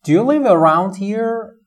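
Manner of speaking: slow, clear question; drawn out as a friendly question; asking a stranger. Shown as a demonstration. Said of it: "طرف پرسه که".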